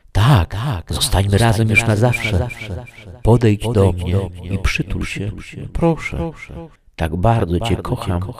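high echoing seductress voice; lustful apparition. A narrator's reading. Ghostly lover begging him to come and cuddle, seductive. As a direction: lure him closer, pitched high and otherworldly. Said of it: "uśmiechnęła się lubieżnie".

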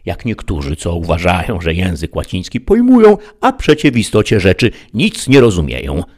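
lightly voiced lofty knight lecturing; Don Kichot, learned knight. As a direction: explain like a proud scholar to his squire. Don Kichot answers Sancho.

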